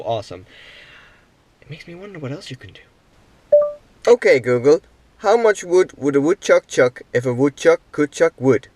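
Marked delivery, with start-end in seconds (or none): 4.1-8.7 loud and clear to the phone; voice command. Real, not acted. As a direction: speak up for the voice assistant.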